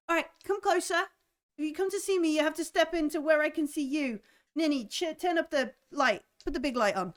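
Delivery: put-on old aunt telling the visitors to step into the light; brisk old aunt. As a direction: summon them closer, firmly. Aunt commands guests.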